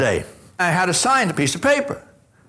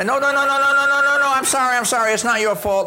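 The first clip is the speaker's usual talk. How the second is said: hasty apology; 7 semitones higher, faster than usual. Retold or imitated. Frantic backpedaling to teller.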